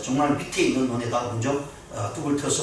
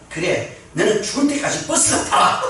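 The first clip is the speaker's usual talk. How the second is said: higher-pitched joking comeback; retold retort; 7 semitones higher, 5 dB louder than usual. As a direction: deliver the driver's punchline with mock indignation. Bus driver's comeback in a joke. (맞받아치는 운전사를 흉내 내는 높은 말투)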